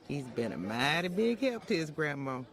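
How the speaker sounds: soft chuckle through the words; fond low chuckle about her grandson; chuckling fondly. Acted. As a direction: laugh gently while bragging on him. Fond grandmother talking, laughing.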